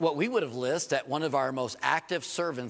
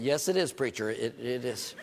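lower, mock churchgoer answering back; congregation's reply; 6 semitones lower than usual. Preacher voicing the congregation's lower reply to him. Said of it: "I'll say it for you".

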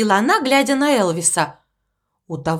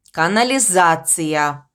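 slow, lower correcting voice from afar; voice from the darkness; 5 semitones lower, slower than usual. Acted. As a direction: correct him slowly from the dark. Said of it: "поправил его голос из темноты". (голос из темноты, медленно поправляя)

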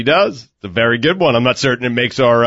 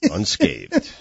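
laughing; 14 semitones lower, 6 dB quieter than usual. Real, not acted. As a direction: laugh the word out. Co-host relieved, laughing.

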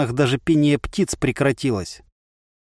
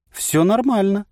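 cheerful; 7 semitones higher than usual. A narrator's reading. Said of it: "радостно отозвался голос".

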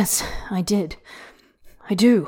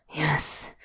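a lower, soft rough yes; 4 semitones lower, 8 dB quieter than usual. Acted. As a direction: let it scrape out low. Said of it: "low and rough".

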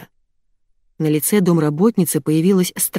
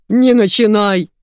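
loud, slow, higher-pitched snap; angry squeal; 4 semitones higher, 5 dB louder, slower than usual. A narrator's reading. Ilya silencing Diana, angry squeal. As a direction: cut them off with a stretched cry. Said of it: "завизжал всегда спокойный Илья".

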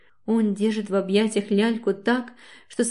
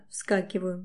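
ordinary delivery

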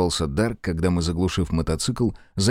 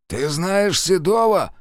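perked up; 11 semitones higher, slower than usual. Acted. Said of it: "взбодрился мужик".

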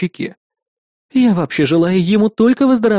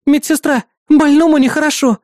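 higher, louder call down the hall; calling for the nurse; 10 semitones higher, 4 dB louder than usual. Acted. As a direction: shout for the nurse. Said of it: "позвала Маруся". (громкий зов медсестры)

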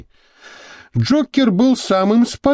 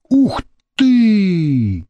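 delighted exclamation; 5 semitones higher than usual. Acted. Vasya marvels at the tattoo, delighted. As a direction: blurt it out in delight. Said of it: "восхищенно воскликнул Вася".

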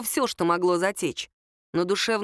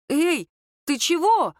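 startled; 8 semitones higher, 4 dB louder, slower than usual. Acted. Startled after being spat on.

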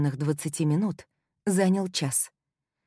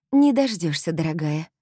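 sweet snide reply; 4 dB louder than usual. Acted. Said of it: "тем же тоном ответила я".

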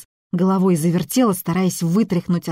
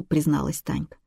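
ordinary delivery, nothing marked

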